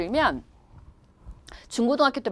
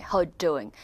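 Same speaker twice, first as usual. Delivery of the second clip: softer, lower, understated British greeting; British accent; 5 semitones lower, 5 dB quieter, much slower than usual. Shown as a demonstration. Teacher shows less showy British greeting, understated British accent. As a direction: play it down, British style. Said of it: "영국 사람들이 이런 게 좀 덜해요".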